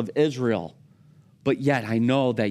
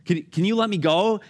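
pleading wrestler; 7 semitones higher than usual. Retold or imitated. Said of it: "The man's like".

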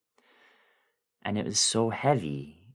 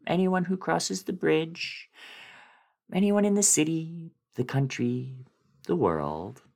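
climbing higher and higher on each phrase; building fear as the list widens; rising dread; 8 semitones higher than usual. A narrator's reading. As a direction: let the pitch climb with mounting alarm. Climax of dread monologue.

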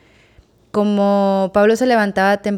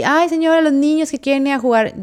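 higher, pleading housekeeper voice; imitating the housekeeper; 6 semitones higher than usual. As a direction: do the nanny asking sweetly, pitched up. Housekeeper voiced asking permission. (la señora que pide permiso a la patrona, con voz aguda)

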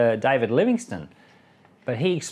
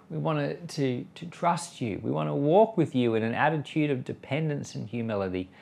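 hushed heartfelt prayer. Acted. Closing prayer.

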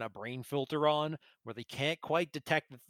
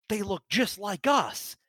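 mock shout; 6 semitones higher, 4 dB louder, slower than usual. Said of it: "he shouts out".

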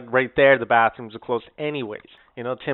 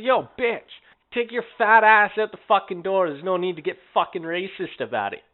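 retold telling-off; 6 semitones higher than usual.

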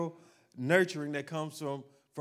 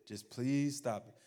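much lower, much softer weary plea, slowing at the end; exhausted groan; 6 semitones lower, 7 dB quieter than usual. Retold or imitated. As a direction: drag it out, worn down by the crying. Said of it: "And I'm like".

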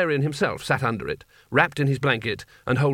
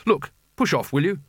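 higher-pitched annoyed brush-off; irritated; 4 semitones higher than usual. A narrator's reading. Rincewind to children selling him things, irritated. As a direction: shoo off a pestering crowd. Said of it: "The last scream".

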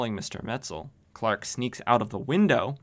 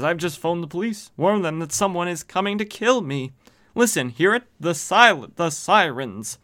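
higher, panicked plea to the reporter; a frightened man begging for help; scared; 7 semitones higher, 4 dB louder than usual. Retold or imitated. Terrified man tells reporter police are coming, panicky. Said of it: "He's very scared".

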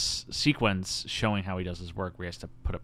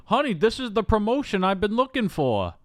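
hammed-up excited boyfriend, high and loud; overacted, high-pitched movie excitement; mock excitement; 12 semitones higher, 5 dB louder than usual. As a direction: announce big news with exaggerated glee. Acts out boyfriend announcing promotion.

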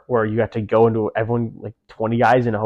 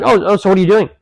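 put-on British accent; 9 semitones higher, 7 dB louder, faster than usual. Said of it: "I think these people aren't from the U S".

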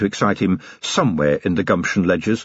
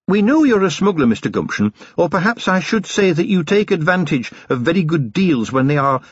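higher, politely insistent officer's voice; courteous but in charge, lightly acted; lightly voiced polite watch officer; 5 semitones higher than usual. Watch officer questioning a suspected smuggler, politely firm.

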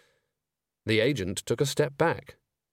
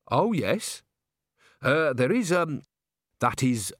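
nervous manager. Acted. Bucket addresses Agnes, nervously halting. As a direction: stall with ums and uhs. Bucket flounders, asks for help.

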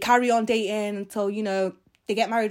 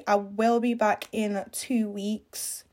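slow, hesitant sign-off; unconfident; much slower than usual. Shown as a demonstration. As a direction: say it like you're unsure you'll keep the promise. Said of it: "I need to say that with more confidence".

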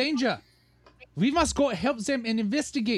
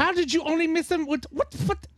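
incredulous; 6 semitones higher than usual. Acted. Exasperated disbelief at shots.

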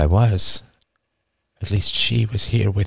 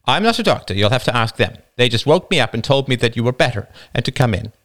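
higher wife's voice, quick deflection; the wife, evasive; wife deflecting; 4 semitones higher, faster than usual. Acted. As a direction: brush the question aside briskly.

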